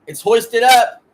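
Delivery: loud, high commentator shout, last words drawn out; excited match call. Real, not acted. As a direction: belt out the header, stretching the word. Live call of a header.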